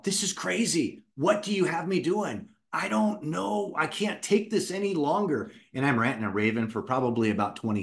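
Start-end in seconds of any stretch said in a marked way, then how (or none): 0.0-5.5 pleading up at the ceiling in frustration; frustrated cry to the heavens, pitched way up; yelling at God. Retold or imitated. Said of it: "I look straight up and I yell".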